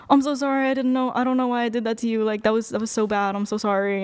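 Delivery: mock moping apology. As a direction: imitate a mopey, pleading apology. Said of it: "he calls me moping and shit".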